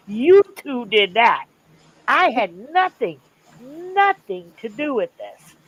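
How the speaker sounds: high, sassy mock telling-off; sassy scolding. Daughter sassily scolding her dad about the family, high and playful. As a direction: wag a finger at him, playfully.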